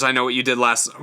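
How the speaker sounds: throat catching mid-sentence; choking. Real, not acted. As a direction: talk while something catches in the throat. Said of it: "I'm choking".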